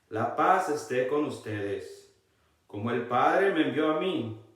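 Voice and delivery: slow, careful scripture reading. Shown as a demonstration. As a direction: draw each word out for the congregation. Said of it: "vamos a leerlo un poco más despacio".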